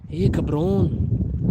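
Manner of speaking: drawn-out attempt at a Hispanic accent. Shown as a demonstration. Streamer trying a requested accent for viewers, botched Hispanic accent. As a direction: have a clumsy go at a Hispanic accent. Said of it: "I can't do an Hispanic accent".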